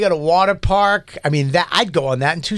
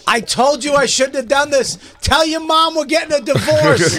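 through a tube; 11 semitones higher than usual. Pretend. Voicing dad in tube.

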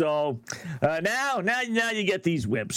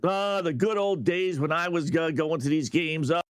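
ordinary delivery

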